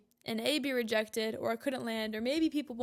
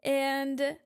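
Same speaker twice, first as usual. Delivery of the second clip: usual speaking voice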